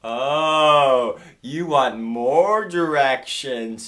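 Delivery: very slow, drawn-out mock Chinese accent; slow realization in a Chinese accent; imitated Chinese owner. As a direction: stretch each word out, lightly Chinese-accented. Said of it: "And she goes".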